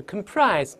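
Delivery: "comprise" with reduced "kəm", stress on "PRISE"; weak first syllable. Shown as a demonstration. Teacher showing the unstressed prefix, weak first syllable. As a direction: lighten the "com" in "comprise". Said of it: "轻读时你看是comprise".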